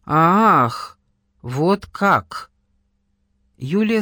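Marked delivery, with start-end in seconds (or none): 0.1-2.5 startled realisation. Acted. Learns caller's friend is dead.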